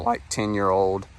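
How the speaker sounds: a real crack in the voice. Real, not acted. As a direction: voice cracking on the words. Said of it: "Wow, that voice crack".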